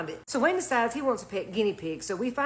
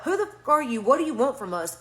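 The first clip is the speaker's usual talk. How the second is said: retold yell; 2 semitones higher, 3 dB louder than usual. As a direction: yell it out in fright and fury. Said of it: "I yell out".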